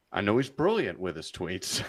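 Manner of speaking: dry sarcasm, praise meant as a dig; sarcastic. Real, not acted. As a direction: say it with heavy irony. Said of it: "Your sarcasm is so hard right now".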